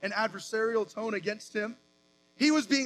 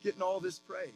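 scornful Pharisees; 6 dB quieter than usual. Retold or imitated. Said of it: "Basically, they said".

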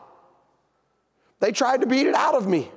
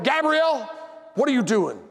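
calling out her name in exasperation; sharp, frustrated parent, name pitched up; frustrated scolding; 5 semitones higher than usual. Retold or imitated. Father bursting in on his daughter, frustrated scolding. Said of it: "opened that door out of frustration".

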